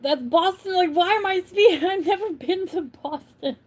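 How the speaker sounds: mock bewildered.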